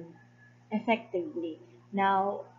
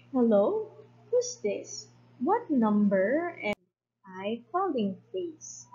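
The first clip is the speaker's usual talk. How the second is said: louder and higher, demanding to know who answered; imperious, pitched up, insisting on an answer; 4 semitones higher, 3 dB louder than usual. Acted. Wife to unknown men on the line, louder and imperious. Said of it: "louder and more imperious to the phone".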